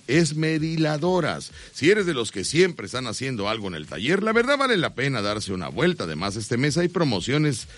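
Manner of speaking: steady radio commercial read; host reading a live sponsor spot. Acted. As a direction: sell the sponsor to listeners.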